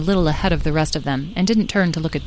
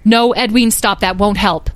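loud, urgent motherly call; urgent objection; 4 semitones higher, 5 dB louder than usual. Acted. Beatrice tries to stop Edwin giving chase, urgent. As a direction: try to head the child off.

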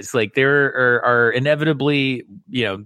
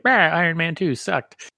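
imitated scornful moviegoer, pitched higher; dismissive mock grumble; 5 semitones higher than usual. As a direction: open on a grumbled "bah", mock-disgusted. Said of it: "that's exactly how I say it".

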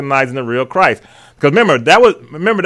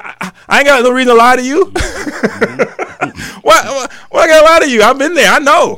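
lightly voiced Jesus, pitched up and pressing; 8 semitones higher than usual. Jesus reassuring his followers, voiced high and playful.

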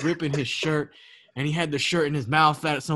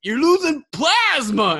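high, slow mock-serious warning; slow high mock diagnosis; grave warning; 12 semitones higher, 6 dB louder, slower than usual. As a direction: deliver the news like a worried artist. Artist warning in story.

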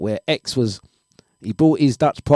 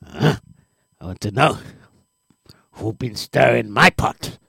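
the ex's voice. Retold or imitated. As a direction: drag it out like the scheming ex, lightly voiced. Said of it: "let's go back to the voice".

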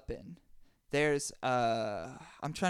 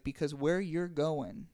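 laughing. Acted. Sorcerer's punchline.

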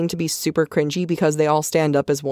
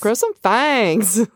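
"Grow some fangs" said slowly, with weight on "some"; oddly drawn-out delivery; 4 semitones higher, much slower than usual. Shown as a demonstration. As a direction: stretch "Grow some fangs" slow and a bit higher. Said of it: "I don't know why I said it that way".

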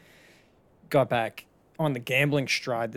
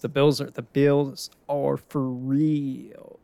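slow, louder proclamation; emphatic hype; 3 semitones higher, 5 dB louder, much slower than usual. Real, not acted. Fan hyping the Bills to viewers, slow loud proclamation. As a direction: declare it like a true believer.

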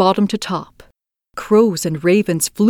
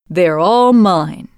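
possessive; 4 dB louder, slower than usual. Acted. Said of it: "said the little robber girl".

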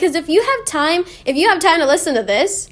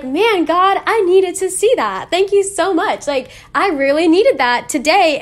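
grateful realization; 3 semitones higher than usual. Retold or imitated. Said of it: "reading something and being like".

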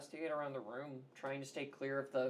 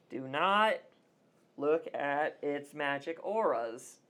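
loud; 8 dB louder, slower than usual. Acted. Character warns herself, blinded.

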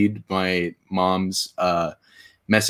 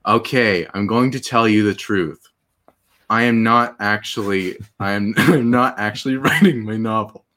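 monotone Neil Breen. Retold or imitated. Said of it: "in the most monotone voice ever".

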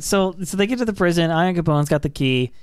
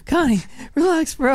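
high put-on bro voice; 9 semitones higher than usual. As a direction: soothe him like a bro. Calming Connie in a put-on voice.

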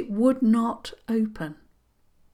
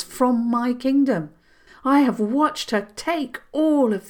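proud princess voice; 4 semitones higher, 3 dB louder than usual. Acted.

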